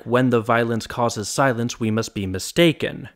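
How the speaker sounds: "When the violence causes silence, we must be mistaken" in strong-weak beats; rhythmic trochaic meter. Shown as a demonstration. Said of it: "Even just spoken like that".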